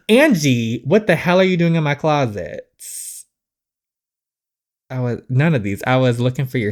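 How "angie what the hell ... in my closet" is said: startled shout. Acted. Finds intruder in her closet.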